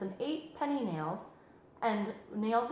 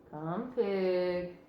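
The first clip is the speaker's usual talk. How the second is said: farmer calling pig; 2 semitones lower than usual. A narrator's reading. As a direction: coax the pig gently. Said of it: "said Zuckerman".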